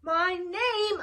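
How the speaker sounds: loud yell. Acted. Flytrap yells back at his chasers, loud. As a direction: shout it back at them. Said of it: "I yelled back".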